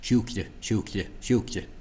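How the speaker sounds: "Shukra" as "shook-tyuh", slender r; Munster pronunciation. Shown as a demonstration. Teacher showing Munster dialect, slender r in "Shukra". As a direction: say "Shukra" with a palatal sound before the final schwa. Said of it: "as if it were S I U".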